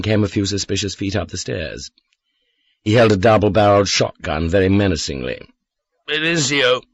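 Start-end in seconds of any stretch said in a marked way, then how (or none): 6.1-6.8 disappointed. Acted. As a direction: let down, drunk man's voice. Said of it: "He sounded disappointed".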